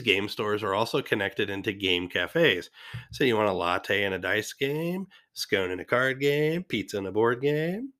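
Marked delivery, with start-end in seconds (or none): 3.1-7.9 playful character impression with stretched, rising phrase endings; Goldmember. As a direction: do a lightly voiced movie-villain impression, lifting each offer. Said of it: "That was my best gold member impression".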